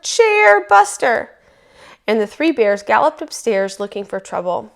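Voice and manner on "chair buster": loud, slow, high roar of an angry bear. A narrator's reading. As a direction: roar it out, stretching the words. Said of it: "he roared".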